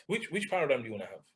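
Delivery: quiet, probing repeat of the question. Shown as a demonstration.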